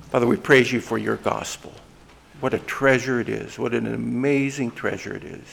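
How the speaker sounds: earnest spoken prayer to God; closing prayer. Real, not acted. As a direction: pray aloud for the whole church.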